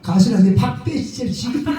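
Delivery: a laughing stab at Gyeongsang dialect; playful Gyeongsang dialect line. Shown as a demonstration. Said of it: "경상도 사투리".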